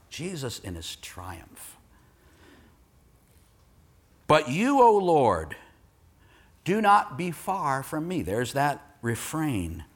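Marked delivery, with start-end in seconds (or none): 4.3-8.2 measured, earnest psalm recitation; scripture reading. Acted. Preacher reads the psalm's plea to the congregation, solemn recitation. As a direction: read it out as a plea.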